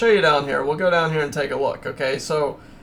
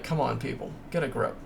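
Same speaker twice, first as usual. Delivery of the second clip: muttered exasperation; 4 semitones lower, 9 dB quieter, faster than usual. Retold or imitated. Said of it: "I'm like".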